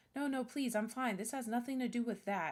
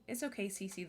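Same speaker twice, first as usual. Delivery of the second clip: usual speaking voice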